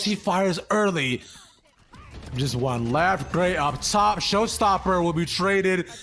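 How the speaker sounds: building excited play-by-play; rising hype to the final kill; esports caster. Acted.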